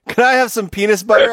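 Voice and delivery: polite order, saying "penis" instead of "peanut"; mispronounced peanut. Retold or imitated. Customer repeating her order to the waiter, mispronounced. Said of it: "couldn't really pronounce the word peanut".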